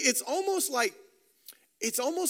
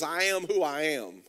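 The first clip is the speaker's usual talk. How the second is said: lower, settled divine reply; voice of God; 6 semitones lower than usual. Acted. Preacher giving God's answer to Moses, lower and calm. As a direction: answer as God, low and certain. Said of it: "And then God replies to Moses".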